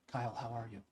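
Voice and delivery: low, soft-spoken greeting; quiet guy. Retold or imitated. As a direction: drop to a gentle, quiet voice, imitating a reserved man. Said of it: "He just sits there quietly".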